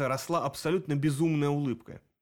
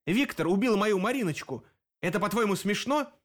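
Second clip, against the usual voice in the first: angry attack; 6 semitones higher than usual. A narrator's reading. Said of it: "набросился на него Дэн".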